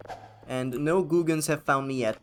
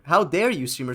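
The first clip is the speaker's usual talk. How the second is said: mock outrage; 2 semitones higher, 6 dB louder than usual. Streamer mocking salty chat, hammed-up outrage. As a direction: ham up a chatter's fake outrage. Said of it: "salt in this chat".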